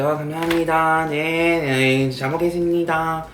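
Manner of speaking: Korean-style politeness. Retold or imitated. Kid receiving communion bread from the priest, Korean-style politeness. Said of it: "I did some Korean shit".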